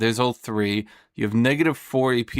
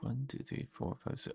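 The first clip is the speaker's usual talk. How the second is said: whispered counting; 3 semitones higher, 16 dB quieter than usual. Real, not acted. Counting dice under his breath.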